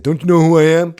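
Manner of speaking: loud, high, imitating a diva; diva comic. Mocking the diva comic who demands recognition. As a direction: throw an entitled tantrum, mocking. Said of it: "acts like he's a diva".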